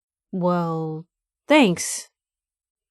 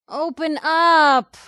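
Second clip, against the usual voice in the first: slow shouted demand; 7 semitones higher, 4 dB louder, much slower than usual. Acted. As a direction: stretch out a loud, higher open up. Shouting at locked gate.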